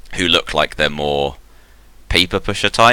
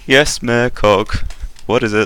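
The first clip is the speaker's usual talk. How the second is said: eager helper; 8 semitones higher than usual. Acted. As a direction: answer the boss eagerly, a bit higher. Helper robot answers the mayor.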